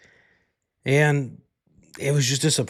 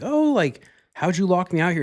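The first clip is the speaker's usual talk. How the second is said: high, pleading voice of a meowing cat; whiny cat voice; 8 semitones higher, 5 dB louder than usual. Retold or imitated. Owner voicing his cat, which begged from the garage, high and whiny. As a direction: speak as the cat, whining to be let in. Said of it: "she was fucking right there meowing like".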